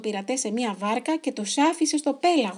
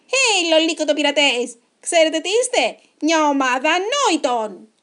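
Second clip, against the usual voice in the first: loud, higher-pitched challenge; shouted taunt; 4 semitones higher, 10 dB louder than usual. A narrator's reading. Henry calling the chicken pirates fools, shouted taunt. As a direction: call out boldly, stretching the final insult.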